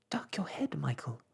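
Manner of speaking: shouted. Acted. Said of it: "shouted Jane suddenly".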